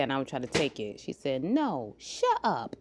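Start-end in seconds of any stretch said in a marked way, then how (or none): 1.4-2.8 put-on toddler snapping. Toddler told her mom off.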